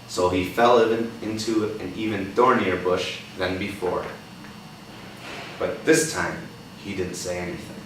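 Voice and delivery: put-on reading a picture book to a child; gentle read-aloud for a young listener; story reading. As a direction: tell it like a storybook.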